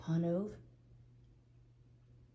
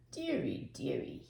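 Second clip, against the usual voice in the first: slow sigh; 3 semitones lower than usual. Acted. Old man to himself, slow and sinking. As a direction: shake the head over it, slowly. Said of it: "he said slowly".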